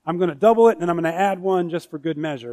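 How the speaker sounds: mock-confident disciple boasting; proud Peter. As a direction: brag like proud Peter sure of himself. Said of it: "he's probably like".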